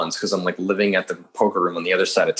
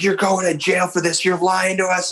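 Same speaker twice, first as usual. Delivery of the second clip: higher, mock stern accusing voice; harsh interrogator; 8 semitones higher than usual. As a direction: imitate a tough cop grilling a suspect. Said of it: "tearing me apart".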